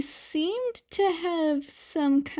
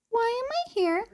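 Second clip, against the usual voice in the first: murmured to himself; 11 semitones higher, faster than usual. A narrator's reading. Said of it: "Dekoru murmured to himself".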